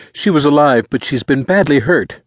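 put-on high, urgent boy's voice; high-pitched, worried report; frantic teenage boy. A narrator's reading. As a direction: answer in distress. Boy reports sister's injuries.

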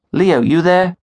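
calling into a silent phone. Acted. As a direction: check if anyone's still on the line.

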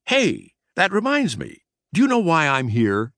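high, squeaky exclamation; light up with a high squeak; prankster mouse, suddenly eager. A narrator's reading. Prankster suddenly remembers his errand, high eager voice. Trap has a sudden thought.

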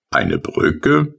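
high rising astonished question. Acted. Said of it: "fragte der Maler erstaunt". (erstaunte, hoch ansteigende Frage)

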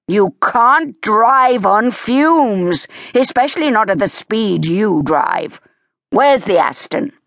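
a stern dad laying down the law; Leo, scolding father. Acted. Leo lectures Evie.

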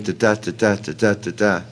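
"ta, ta" in short-LONG pairs; iambic beat. Shown as a demonstration. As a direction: stress every second "ta" in a steady pulse.

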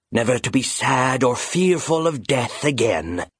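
eerie, cold phantom voice, coaxing; a ghostly bird tempting its prey; sinister phantom bird. Acted. Phantom bird tempting the grieving raven, eerie and cold.

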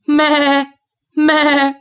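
high, loud, whiny goat bleat. Acted. Hungry goat bleats, complaining.

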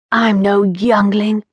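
slow, sultry teasing purr; seductive purr. Acted. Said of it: "Her voice was a low, seductive purr".

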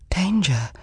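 ordinary delivery

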